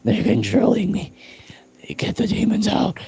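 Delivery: high strained possessed cry; demon voice. Acted. Streamer performing a possessed demon voice. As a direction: beg to get the demons out. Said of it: "that really hurts my voice".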